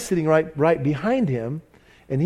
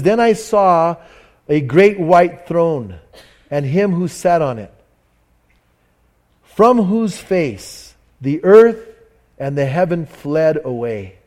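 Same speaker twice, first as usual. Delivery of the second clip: slow, weighty Bible reading; solemn scripture reading; 3 dB louder, slower than usual. Acted. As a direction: read each phrase like a pronouncement. Reads Revelation aloud.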